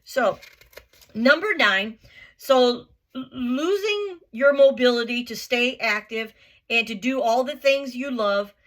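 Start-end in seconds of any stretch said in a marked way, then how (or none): 2.4-8.5 choking up on the word losing; fighting back tears mid-sentence; real tears catching in the throat; voice breaking. Real, not acted. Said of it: "I'm getting all worked up".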